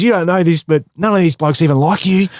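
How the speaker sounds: mock sly sledge. Opponent whispering a sledge to get inside his head, playful mock voice. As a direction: plant a doubt in his head.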